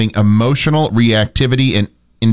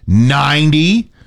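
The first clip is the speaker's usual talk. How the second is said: slow, rising, stretched ninety; drawn-out tease; much slower than usual. Real, not acted. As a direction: tease the listeners with it. Teasing hot forecast reveal.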